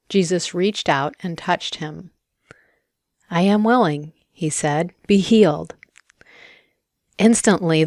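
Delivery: clear, measured Bible story narration; scripture reading. A narrator's reading. Reading the gospel to open a guided prayer, scripture reading. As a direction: read the passage aloud with firm emphasis. Reads scripture aloud before meditation.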